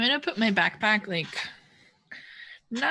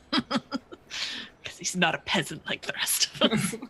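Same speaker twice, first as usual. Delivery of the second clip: laughing; slower than usual. Real, not acted. Joking about the peasant character.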